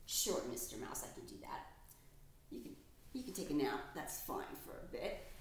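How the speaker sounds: soft whisper to a sleepy mouse; gently whispered permission to nap; hushed reassurance. Acted. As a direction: hush it so he can rest.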